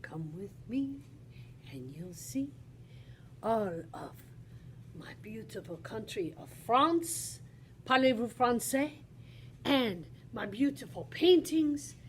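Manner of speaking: pretend Henri Matisse. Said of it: "I'm not Henri Matisse".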